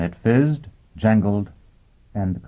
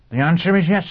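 high, crisp, distinct robot voice; 12 semitones higher, 6 dB louder than usual. Acted. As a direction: speak like a cheerful machine. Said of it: "the robot said, quite distinctly".

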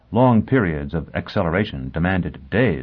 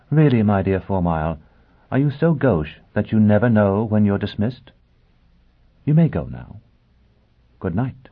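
Olivia's voice; 2 semitones higher than usual. Acted. Olivia dismissive.

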